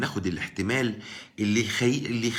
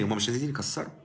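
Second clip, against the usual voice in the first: calm correction; 6 dB quieter, faster than usual. Shown as a demonstration. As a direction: answer quietly and firmly. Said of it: "هقول لك تاني". (رد هادئ وحازم بصوت أخفض)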